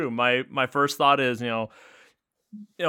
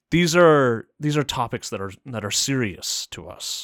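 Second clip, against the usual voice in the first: a hint of a serious father; switching to a grave voice when a listener gets serious; fatherly tone; 3 semitones lower than usual. Shown as a demonstration. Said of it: "the fatherly tone".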